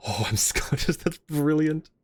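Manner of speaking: a light Scottish lilt on the line; imitating a delighted Scottish realization; Scottish accent. Streamer imitating the Doctor's Scottish line, light Scottish accent. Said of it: "I love that scene so much".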